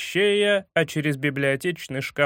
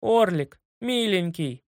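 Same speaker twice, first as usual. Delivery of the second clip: affectionate; 2 semitones higher than usual. A narrator's reading. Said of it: "неожиданно ласково обратился".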